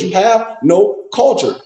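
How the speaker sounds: slow, each word spaced; slow emphatic. Retold or imitated. Telling brothers they lack culture, slow and emphatic. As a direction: lay it down slowly. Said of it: "I keep telling Negroes".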